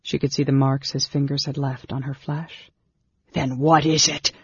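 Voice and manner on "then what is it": mild, contained shout; shouted question. A narrator's reading. Raistlin demanding an answer from her, mildly shouted. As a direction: demand it sharply without full volume. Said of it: "Raistlin shouted".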